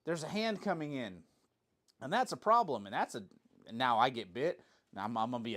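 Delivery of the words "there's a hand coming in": high alarmed mock dog voice; hammed-up dog panic; voicing the dog. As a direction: play the worried dog, pitched up. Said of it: "if the dog goes".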